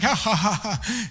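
imitating a listener's laughter; mock laugh. Pastor mocking a laughing congregant, imitated laugh. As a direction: fake a chuckle back at him. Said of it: "This guy's like".

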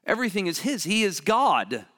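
loud, high, fervent proclamation; preaching at full force. Acted. Preacher proclaiming Jesus's wealth, loud and fervent. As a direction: build and declare it with fire.

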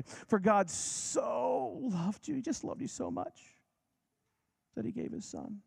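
a cloying, sugary retelling of the verse; sentimental mock reading. Shown as a demonstration. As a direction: coo it like a romantic greeting card. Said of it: "We read that this way".

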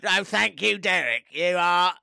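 slow, grand alien speaking. Acted. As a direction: alien voice turning doglike. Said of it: "sound like a dog the more you do the voice".

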